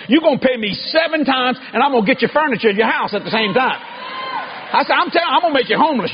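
shouted threat at the devil; defiant shout. Retold or imitated.

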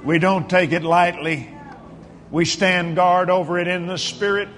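measured, emphatic pastoral prayer; preacher's prayer with long pauses between declarations; fervent prayer. Real, not acted. Leads congregation in fervent prayer.

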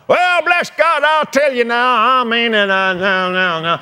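a hint of an indignant stranger lost for a reply; sputtering man. Preacher mimics a flustered man cornered on the Psalm, blustering.

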